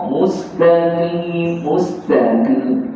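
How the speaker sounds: "Mustaqim" slowly, q made far back in the throat; deep qaf. Shown as a demonstration. Quran teacher points out qaf, "Mustaqim" with deep q. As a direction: draw out "mustaqim" with a deep uvular q. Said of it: "Ini huruf qaf".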